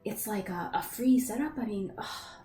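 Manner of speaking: lightly voiced young woman, eager about the concert; young woman traveler. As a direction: traveler telling her partner about the bard's free show.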